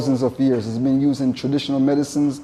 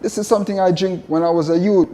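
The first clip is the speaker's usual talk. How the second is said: surprised recognition; 4 semitones higher than usual. Retold or imitated. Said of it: "I'm like".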